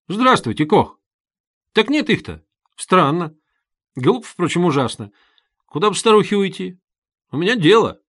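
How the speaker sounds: put-on chatty young visitor, puzzled; lively young man.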